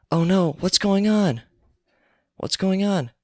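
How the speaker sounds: high, slow alarmed cry; mock panic. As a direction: play a panicked theatregoer, half in jest. Shocked theatre audience voiced.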